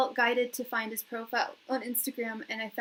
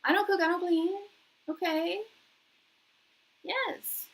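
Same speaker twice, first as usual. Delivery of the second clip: higher, louder, hyped-up cheering; hyped reaction; 9 semitones higher, 4 dB louder than usual. Retold or imitated. Recalling her first hearing of the line, hyped and much higher. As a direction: gasp it out like the line just hit you. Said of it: "I was just like".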